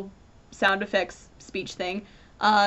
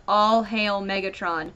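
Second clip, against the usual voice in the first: sarcastic; 2 semitones lower than usual. Retold or imitated. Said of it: "Scrapper very sarcastically says".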